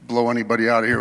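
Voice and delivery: loud projecting classroom voice; teacher voice. Real, not acted. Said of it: "with my teacher voice".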